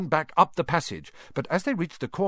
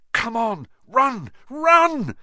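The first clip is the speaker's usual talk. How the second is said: high, loud, rising panic; urgent yell; 10 semitones higher, 6 dB louder, slower than usual. Acted. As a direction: shout her into moving. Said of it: "Harry yelled at Hermione".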